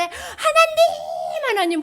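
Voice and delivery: long, high acted wail; desperate calling. Student before the college exam calls on God, acted desperate plea. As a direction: stretch the call out high, begging. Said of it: "불렀다가".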